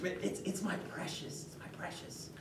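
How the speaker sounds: soft, possessive hiss fading to a whisper; obsessed hobbit hissing over his ring; Gollum-like possessive Bilbo. Retold or imitated. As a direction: clutch the ring and croon my precious.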